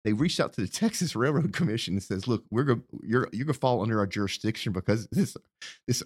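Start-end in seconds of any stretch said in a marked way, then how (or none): 2.3-6.0 holding back a laugh; trying not to laugh mid-sentence; stifled giggles. Real, not acted. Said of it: "I'm trying not to laugh".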